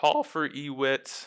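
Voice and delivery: voice briefly breaking. Player calling for ewit next turn during a game, voice cracking. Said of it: "my voice cracked for half a second".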